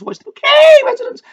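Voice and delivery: very high, hammed-up posh snob; over-the-top posh. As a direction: put on a shrill-pitched upper-class affectation. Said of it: "the over-the-top posh".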